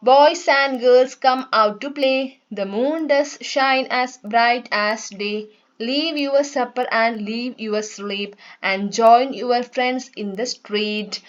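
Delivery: slow, sing-song nursery rhyme reading; poem recitation. Shown as a demonstration. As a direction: recite the rhyme slowly for children. അപ്പൊ read ചെയ്യാം.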